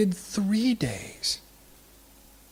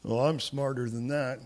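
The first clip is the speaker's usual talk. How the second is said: smug scoff; 6 semitones lower than usual. Retold or imitated. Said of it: "I wonder if Achav's like".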